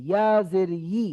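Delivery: ই as a yi, tongue middle pressed to the palate. Shown as a demonstration. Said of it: "এটা ওপরে লাগিয়ে, লাগিয়ে দিতে হবে".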